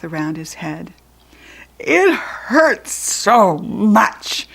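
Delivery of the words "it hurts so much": slow, loud moan of pain; pained bellow. Acted. Jack Frost complaining about his tooth, slow pained bellow. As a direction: drag it out in agony. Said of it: "he bellowed".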